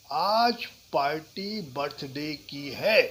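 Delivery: slow line with one word leaned on; word stress. Shown as a demonstration. Teacher demoing word stress about a party. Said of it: "किसी शब्द पे जोर देना है".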